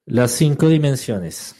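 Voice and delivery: loud, slow and deliberate; emphatic repeat. Real, not acted. Teacher repeating the five dimensions for students, loud and emphatic. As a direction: announce it firmly to the room.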